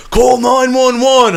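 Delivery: loud, high and slow panicked demand; frantic slow call for help; panicked plea. Retold or imitated. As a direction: beg for help like you think you're dying. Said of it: "then he's like".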